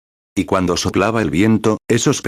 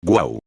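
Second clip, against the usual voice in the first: tired wind moan; 3 semitones lower than usual. Retold or imitated. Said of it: "un viento cansado que sopla".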